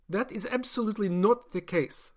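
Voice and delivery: doctor bristling at accusation; indignant. Acted. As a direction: insist hotly.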